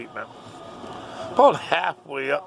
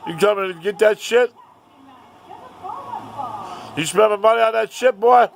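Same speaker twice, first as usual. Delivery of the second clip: imitating a dad's loud, high challenge; angry taunting; 9 semitones higher, 6 dB louder than usual. Dad accusing the boy of spending his money, taunting. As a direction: jeer at him accusingly, raised voice.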